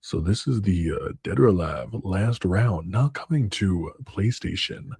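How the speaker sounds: a hint of a game trailer announcer. Shown as a demonstration. Gamer demoing his video intro to a fellow creator, lightly voiced trailer announcer. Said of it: "I'm gonna be like".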